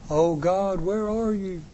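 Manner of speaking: high, pleading call to God; anguished cry. Acted. Preacher voicing a lost believer, high pleading call.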